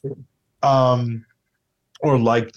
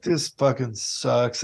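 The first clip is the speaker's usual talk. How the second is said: muttered dismay; 4 dB quieter, slower than usual. Retold or imitated. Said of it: "And I was like".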